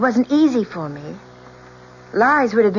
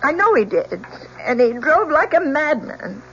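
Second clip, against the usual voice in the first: distraught outburst. Acted. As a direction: blurt it all out, unable to stop. Witness breaks down testifying.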